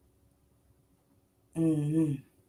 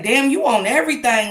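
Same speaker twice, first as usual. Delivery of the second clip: higher, louder amazed exclamation; stunned outburst; 5 semitones higher, 7 dB louder than usual. Retold or imitated. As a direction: blurt it out in shock. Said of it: "I was like".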